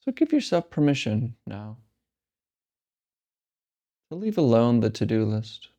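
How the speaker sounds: calm, unhurried meditation guide with long pauses; guided meditation. Real, not acted. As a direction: lead them gently into stillness, leaving space between phrases. Leads a breathing meditation.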